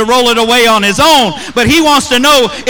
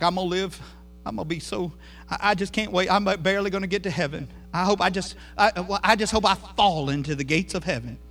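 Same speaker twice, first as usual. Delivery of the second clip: mock timid Christian; 3 semitones lower, 11 dB quieter than usual. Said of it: "most Christians wanna live way out there".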